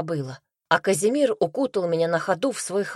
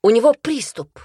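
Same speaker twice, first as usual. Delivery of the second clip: louder, higher cry of alarm; alarmed squeak; 5 semitones higher, 7 dB louder than usual. A narrator's reading. Wife alerting everyone to her husband's attack, squeaking in alarm. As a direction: raise the alarm in a high voice. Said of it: "пискнула я".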